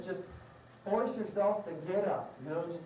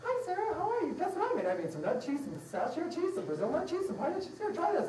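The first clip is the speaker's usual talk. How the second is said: high, bright hammed-up friend voice, much higher; mock cheery friend; 9 semitones higher than usual. Eager friend offering Sarah homemade nut cheese, high and hammed-up. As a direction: chirp it up like an eager host.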